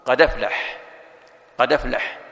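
hamza moved onto the dal, qad-aflah run together; transfer demo. Shown as a demonstration. Teacher demonstrating hamza transfer to students. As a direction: glide قد into أفلح with no glottal stop. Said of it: "فتقول".

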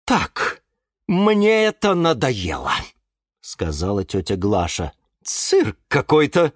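scolding aunt Glasha. Acted. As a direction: nag him like a fed-up caretaker. Glasha fed up. (тётя Глаша ворчит на Юру, слегка сыгранно)

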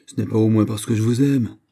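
acted cry of protest; indignant exclamation. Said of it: "s'écria Montalet".

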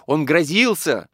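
high, loud, drawn-out cry. A narrator's reading. Mistress recalling the threat, crying out. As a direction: insist on it in panic. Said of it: "кричала Екатерина Егоровна".

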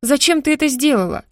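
high, sharp shocked shriek; shrill squeal. A narrator's reading. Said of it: "взвизгнула соседка". (взвизгнула, высоко и резко)

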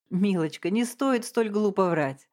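usual speaking voice

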